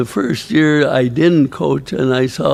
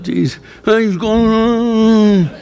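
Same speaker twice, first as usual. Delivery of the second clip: slow, chuckling aside; amused thought; 5 semitones higher, much slower than usual. Retold or imitated. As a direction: savour the joke with a laugh. Laughing at a rival coach's reaction.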